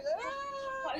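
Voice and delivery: very high little whine, imitating a kid; imitated high-pitched objection; mimicked child's dislike. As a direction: squeal it like a kid who hates that voice. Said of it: "she used to hate that voice".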